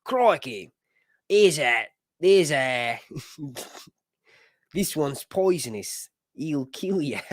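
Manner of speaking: hammed-up Australian wildlife-host accent; badly faked Australian, words drawn out; Steve Irwin. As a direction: do a rough Australian impression. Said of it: "I did Steve Irwin as a kid".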